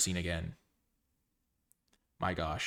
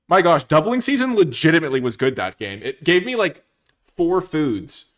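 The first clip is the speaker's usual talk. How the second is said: loud, high, laughing disbelief; excited laughing relief; 6 semitones higher, 12 dB louder than usual. Real, not acted. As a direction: burst out laughing and shout the relief. Gleeful after narrow win.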